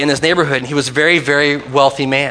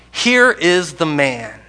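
Pilate presenting Jesus; much slower than usual. Acted. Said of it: "said to them".

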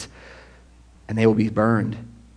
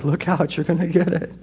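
mock gloating; 5 semitones higher, 4 dB quieter than usual. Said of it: "We don't say it gleefully like".

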